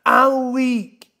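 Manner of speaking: hammed-up woman's reaction; mock woman laughing. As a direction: imitate her laughing reaction. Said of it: "declare over yourself that you weak".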